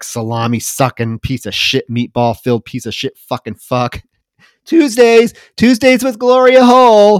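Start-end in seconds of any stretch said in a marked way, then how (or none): 0.0-4.0 mock mutter, much lower and quieter. Describing a drag show, the speaker retells the character muttering under her breath. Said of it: "And then under her breath".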